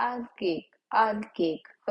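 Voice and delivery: आयल cake with a clear aa-yal start, no v; आयल cake said as oil cake, not vile cake. Shown as a demonstration. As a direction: begin आयल on the open vowel, never वायल. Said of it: "वायल cake नहीं पढ़िएगा".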